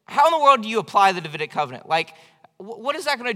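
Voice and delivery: fast, exasperated mock complaint; complaining. Preacher retelling his late-night complaint to his wife, exasperated. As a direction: grumble it like a tired skeptic. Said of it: "I was kinda complaining".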